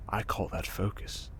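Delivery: breathy near-whisper; hushed murmur. Acted. Villain teasing the hero's focus, hushed murmur. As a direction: drop it to a secret.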